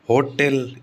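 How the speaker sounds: होटल as "HO-tel", weight on हो; stress on first syllable. Shown as a demonstration. Teacher showing the expected rule, होटल stressed on हो. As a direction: hit हो, keep टल short in होटल. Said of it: "इस पे आना चाहिए".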